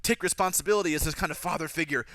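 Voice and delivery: mock heartfelt confession; mock melodrama. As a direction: spell out the angst, half-hammed. Voicing needless expository dialogue for Peter.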